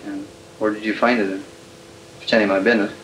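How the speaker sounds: scratchy archival tape sound. Real, not acted. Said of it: "I got this recording from the archives".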